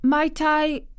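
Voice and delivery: put-on high, timid girl's quaver. A narrator's reading. Girl about to ask her guardian a favour, quavering. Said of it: "quavered Mary".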